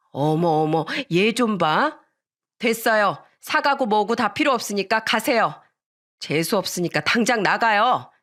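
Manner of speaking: lightly voiced huffy dismissal; offended mother acting scandalised; affronted neighbour woman. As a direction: send them off in a huff. Friend's mother haughtily dismisses them.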